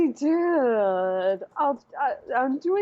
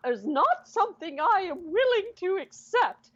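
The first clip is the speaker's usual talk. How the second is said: heated character voice; 4 semitones higher than usual. Acted. NPC arguing heatedly in character.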